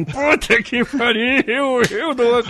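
disbelief. Retold or imitated. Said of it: "como quem diz assim".

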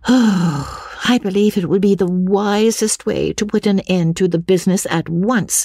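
high-pitched, sighing resignation; Lucy sighing deeply. A narrator's reading. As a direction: open on a long sigh, then stay high as Lucy. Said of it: "exclaimed with a deep sigh".

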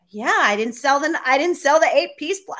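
replaying a frustrated, let-down moment on the phone; upset. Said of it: "like, I was really upset".

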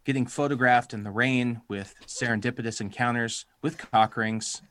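hammed-up announcer read of a dating ad; podcast voice. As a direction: read it like a cheesy personal ad. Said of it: "I'm gonna get my podcast voice on here".

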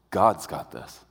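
low, slightly softened voice of peace; peaceful. Shown as a demonstration. Peace answering pride that God's got this, low and peaceful. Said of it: "Peace talks like this".

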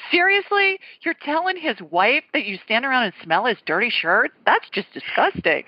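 retold disbelief, jumping high on the first word; mock-appalled inner voice; incredulous. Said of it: "I'm thinking".

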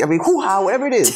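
ordinary delivery

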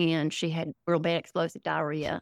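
put-on folksy Southern accent, rambling along; Southern parody character. Comedian as her Southern MAGA character explaining herself, Southern parody voice.

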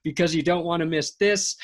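upbeat sponsor read. Acted. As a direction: pitch it like a radio spot.

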